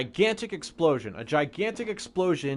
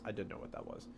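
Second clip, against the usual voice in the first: much softer, dropped-away repeat; quiet echo; 6 semitones lower, 15 dB quieter, faster than usual. Shown as a demonstration. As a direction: repeat it almost under your breath. Echoing a chat reply.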